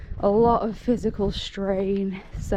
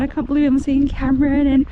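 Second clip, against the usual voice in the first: excited; 4 semitones higher, 6 dB louder, faster than usual. Real, not acted. Excited about seeing Cameron.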